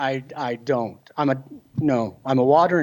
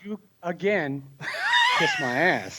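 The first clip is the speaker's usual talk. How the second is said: laughing retort; 4 semitones higher, 3 dB quieter than usual. Real, not acted. Joking retort to host's jab.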